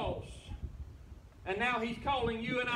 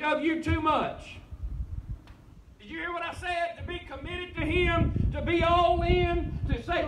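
preaching; 5 dB louder than usual. Real, not acted. Preacher exhorting the congregation.

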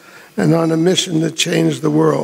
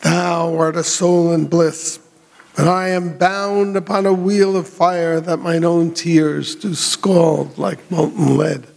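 slow, grand theatrical recitation; actor's delivery. Shown as a demonstration. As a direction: declaim it like a stage actor. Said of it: "delivering it like an actor".

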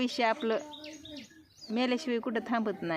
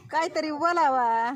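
pleading call; 5 semitones higher, 5 dB louder than usual. Real, not acted. Pleading villager to speak.

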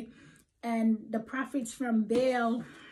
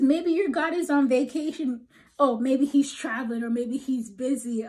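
mocking taunt; 2 semitones higher, 5 dB louder than usual. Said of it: "Elijah is taunting".

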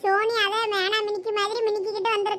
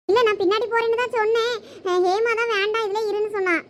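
ordinary talk, nothing marked

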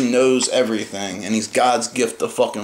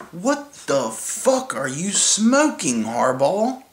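incredulous; 5 semitones higher, slower than usual. Real, not acted. Ranting disbelief at coach's claim.

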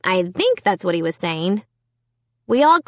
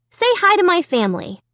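put-on lightly raised, higher girl's voice; ventriloquist's prompt; 8 semitones higher, faster than usual. A narrator's reading. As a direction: cue the dummy to greet everyone. Ventriloquist prompts her dummy.

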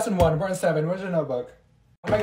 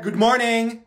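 insistent repeat; 2 semitones higher, 3 dB louder, slower than usual. Acted. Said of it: "I said".

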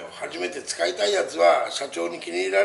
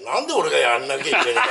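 indignant quote; 3 semitones lower, faster than usual. Retold or imitated. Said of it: "本庄のお客には".

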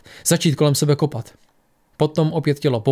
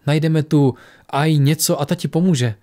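gently reassuring, a bit slower; soothing. Acted. Alex soothing the frightened Adrian, gentle and slow. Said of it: "uklidňovala ho Alex".

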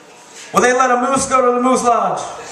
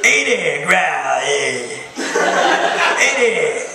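New York bear. Acted. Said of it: "Like a bear from New York".

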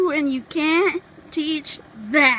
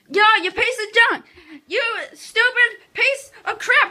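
angry yelling; 3 semitones higher than usual. Real, not acted. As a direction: yell it at him. Yelling at brother over toys.

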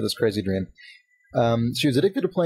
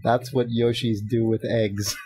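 sleepy mumble; slower than usual. Retold or imitated. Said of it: "in a sleepy voice, my wife mutters".

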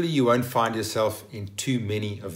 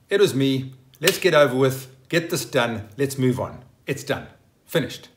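brisk run of short, separate phrases; short, sharp apology; 5 dB louder than usual. Shown as a demonstration. Owning up to move on, short and sharp. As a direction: get the admission over with briskly. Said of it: "it's short and sharp. It's just a quick apology".

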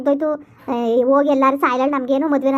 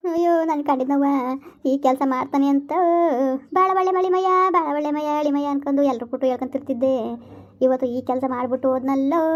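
tearful lament; 3 dB quieter than usual.

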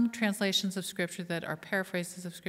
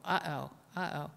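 mock nervous worry. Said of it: "And we all go".

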